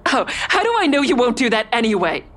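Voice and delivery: hopeless question to a killer; woman trapped by her stalker's threat; desperate fear. Acted. Ava despairs.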